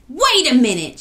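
high, loud exclamation; interrupting shout. A narrator's reading. Equia realizing something about the key, sudden shout. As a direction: cut in with a shout. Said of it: "shouted Equia".

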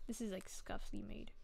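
hushed whispered aside. Real, not acted. Streamer whispering to herself over her drawing, hushed. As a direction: murmur it under your breath.

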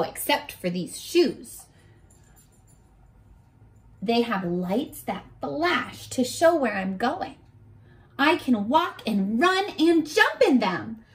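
gentle storybook read-aloud; reading to children. Acted. Teacher reading a picture book to her class, storybook voice.

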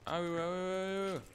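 drawn-out calling to a teammate. Real, not acted. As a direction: stretch the name out, calling. Calling teammate during game.

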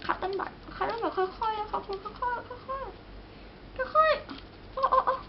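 very slow, high, soft drawn-out voice; slowly and gently. Shown as a demonstration. Vlogger shows viewers how gently to work, very slow and soft. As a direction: stretch every word out softly as if tiptoeing.

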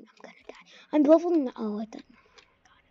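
hushed whisper while hiding; tense gamer whisper. Real, not acted. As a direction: whisper so nobody hears. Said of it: "Why am I whispering?".

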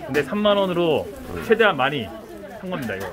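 muffled behind mask; through a face mask. Real, not acted. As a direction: mouth covered by mask. Seen 1: Speaker wears white face mask over mouth throughout labelled words.

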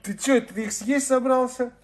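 high, loud amazed cry; surprised exclamation. Real, not acted. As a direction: blurt out in disbelief. Dog sniffing clipped claws.

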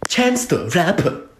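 slow mock Chinese-sounding gibberish; hammed-up fake Chinese accent. Shown as a demonstration. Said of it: "how to speak fake Chinese".

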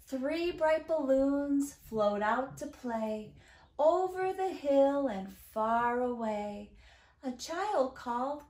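slow, lilting storytime reading; singsong, drawn-out verse; children's rhyme reading. A narrator's reading. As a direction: read a counting rhyme to little ones. Reads a counting rhyme aloud.

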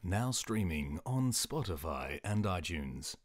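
slow announcer voice; mock ad read. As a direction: read it like a radio commercial. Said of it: "I'll do the commercials for this podcast".

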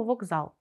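К in «вокзал» voiced to a hard g. Shown as a demonstration. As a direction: say «вокзал» with g in place of к. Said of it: "лунає дзвінко як «г»".

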